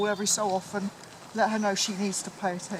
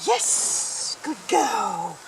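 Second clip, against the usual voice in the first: squeaky praising a dog; 5 dB louder, much slower than usual. Real, not acted. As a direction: cheer the puppy on brightly. Praising puppy on recall.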